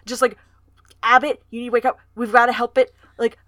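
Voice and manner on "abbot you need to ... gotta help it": louder, urgent retold plea; retold panicked urging; mock panic. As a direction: act out an alarmed wake-up call, louder. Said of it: "in a panic".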